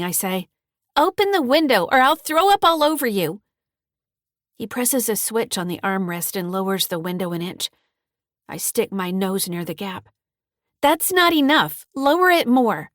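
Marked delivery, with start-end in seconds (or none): 1.0-3.4 higher and louder, half-choking plea; gagging and gasping. A narrator's reading. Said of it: "Gagging and gasping". 10.8-12.9 desperate demand. Acted. Girl begging for air in car.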